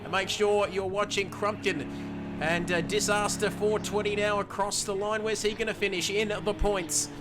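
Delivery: lively play-by-play calling each car over the line; live race commentary. Acted. Race caster calling the finishing order for stream viewers, lively play-by-play. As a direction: call the finishers like a race broadcaster.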